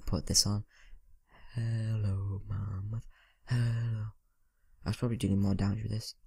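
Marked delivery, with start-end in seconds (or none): 1.5-4.1 drawn-out, level-toned hello; singsong greeting. Pretend. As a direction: call out playfully, stretching the vowels. Calling to mammoth in singsong.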